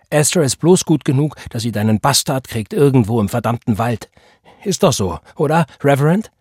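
loud, scornful challenge, rising at the end; indignant and biting; bitter accusation. A narrator's reading. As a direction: spit out the grievance, then taunt with the question. Mistress bitterly accuses the preacher.

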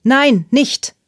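high, loud pleading cry; desperate scream. A narrator's reading. Ruby begging Sophie not to call, desperate scream. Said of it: "schrie Ruby".

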